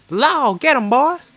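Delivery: high, loud outlaw yell behind a door; muffled bandit shout. Acted. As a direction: shout through the door at the lawman. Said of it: "Muffled voice says".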